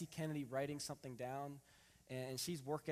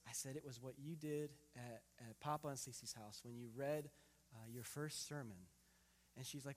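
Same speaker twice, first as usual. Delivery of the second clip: tender bedtime talk; 4 dB quieter than usual. Retold or imitated.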